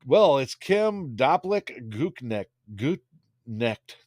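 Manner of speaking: "Gutnecht" spelled out slowly, hard ch; careful name reading. Shown as a demonstration. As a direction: sound out "Gutnecht" carefully, slow. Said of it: "Did I say that right?".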